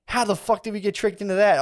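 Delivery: high, disbelieving outburst; can't believe we fell for this; incredulous. Retold or imitated. Realizing what money is: high incredulous outburst.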